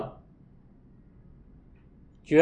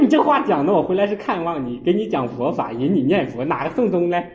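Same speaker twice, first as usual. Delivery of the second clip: 1 retold protest; 2 semitones higher than usual. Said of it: "我说".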